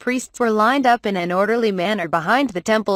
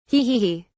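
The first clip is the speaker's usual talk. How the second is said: light spoken "hee hee hee" giggle; lightly acted, deliberate little giggle. A narrator's reading. Sylvia giggles while pointing something out to her friends, light giggle. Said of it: "pointed out while giggling".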